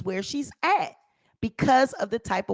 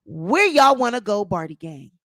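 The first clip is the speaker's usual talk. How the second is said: lightly voiced rapper taunt, a touch louder; mocking a rapper; 4 semitones lower, 3 dB louder than usual. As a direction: tease it like the rapper's tweet. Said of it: "the rapper ... tweeted out".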